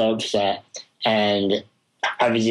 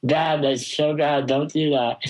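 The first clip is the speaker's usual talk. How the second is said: higher-pitched retold yell, no real volume; mild mock yell; 5 semitones higher than usual. Child yelling at his little brother holding scissors, mild mock yell. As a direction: imitate your own childhood scolding, pitched up. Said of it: "so I just yelled".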